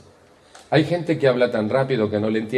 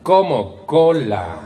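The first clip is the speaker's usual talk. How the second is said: indignant reply; 4 semitones higher, 5 dB louder, much slower than usual. Retold or imitated. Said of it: "tu voz tiene cola".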